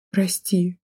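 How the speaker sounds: ordinary delivery, nothing marked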